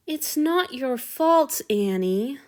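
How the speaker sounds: slow, falsely gentle soothing. Acted. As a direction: coax him like a lover. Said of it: "Marcus soothed".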